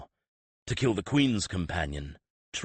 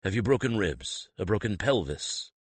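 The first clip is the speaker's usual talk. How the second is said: stern Alberich. Acted. Alberich berates the prince.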